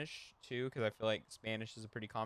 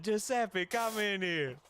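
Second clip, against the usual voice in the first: higher, louder call to the back; calling out loudly; 9 semitones higher, 3 dB louder, slower than usual. Retold or imitated. Restaurant owner calling Giuseppe from the kitchen, loud and high. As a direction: summon a coworker across the room. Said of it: "He's like".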